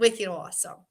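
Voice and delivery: put-on a touch of Boston accent; understated Boston accent; light Boston accent. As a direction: toss off a mild Boston accent. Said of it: "'Cause I'm from Boston".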